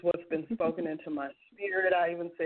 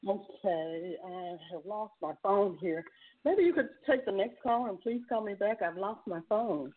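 far from mic. Real, not acted. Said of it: "You sound really far away".

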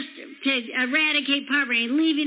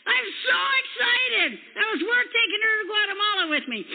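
higher, thrilled retold reply; excited agreement; 5 semitones higher than usual. Speaker voicing Pastor Becky's thrilled yes, mock excited and higher. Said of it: "She goes".

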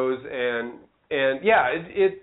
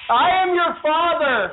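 high, loud triumphant yell; loud shout; 12 semitones higher, 4 dB louder than usual. Real, not acted. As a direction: shout the answer. Guessing it right loudly.

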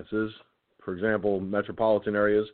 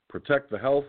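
words stretched by a yawn; yawning mid-sentence; 4 semitones higher than usual. Real, not acted. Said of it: "I yawned and I couldn't stop".

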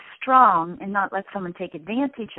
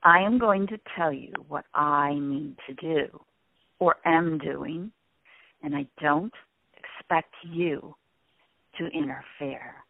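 firm low voice; 5 semitones lower than usual. Shown as a demonstration. Explaining what he needs to do, in a firm low voice. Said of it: "in this voice".

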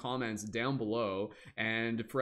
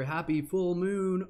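higher and louder, celebrating; excited cheer; 6 semitones higher, 5 dB louder than usual. Real, not acted. Host cheering full moon party.

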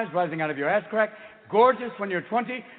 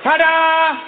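big showy flourish, loud and high; triumphant loud ta-da; 10 semitones higher, 9 dB louder than usual. Acted. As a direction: present it like a magician's reveal. Showy reveal to audience.

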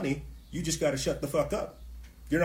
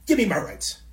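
louder, punchier protest cry; louder protest demand; 6 semitones higher, 7 dB louder than usual. Retold or imitated. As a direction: hit it like a rally chant. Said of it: "people holding up signs saying".

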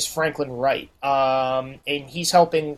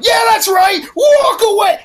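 higher, louder jeering shout; mocking taunt shout; 14 semitones higher, 6 dB louder than usual. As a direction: yell it after someone walking off. Protesters taunting as they leave.

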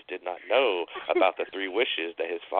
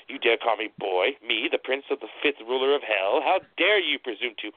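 indignant; 3 semitones higher than usual. Acted. Offended devil retorts.

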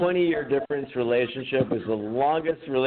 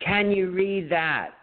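imitating Chris, slower; 6 semitones higher, slower than usual. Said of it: "he'd be like".

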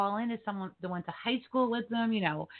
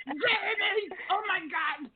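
higher, gushing retold reunion with an old friend; imitating excited Joey; 5 semitones higher, 4 dB louder than usual. Host imitates Joey greeting fake classmate, higher and gushing. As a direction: mimic the guest's overjoyed rush of greetings.

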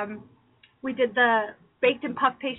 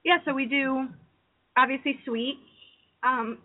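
choking on cheesecake; slower than usual. Real, not acted. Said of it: "sorry, I'm choking on cheesecake".

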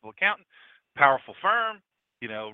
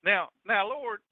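hammed-up Southern plea to God; mock Southern drawl; 3 semitones higher, slower than usual. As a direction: put on a Southern drawl, climbing on "Lord". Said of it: "he didn't talk like this".

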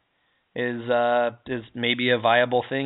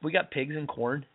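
a half-hearted Minnesota accent; a weak, self-mocking Minnesota accent. Shown as a demonstration. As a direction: lightly play a Minnesota farm folk voice, "don't you know?". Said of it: "That's not really that even, even that good".

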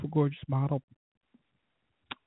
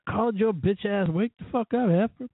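yelling at her; 6 semitones higher than usual. Real, not acted. Yelling at the friend on the phone.

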